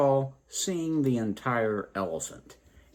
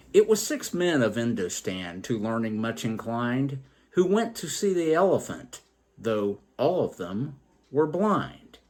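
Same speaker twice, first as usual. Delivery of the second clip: a lightly rhythmic verse reading; poem recitation; 3 semitones higher than usual. Acted. Storyteller reading John Sachs' original, light verse reading. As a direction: read the old lines steadily.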